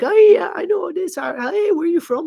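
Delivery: high, put-on European accent; foreign accent. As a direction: mimic a stranger in a European accent. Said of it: "different kinds of accents from different European countries".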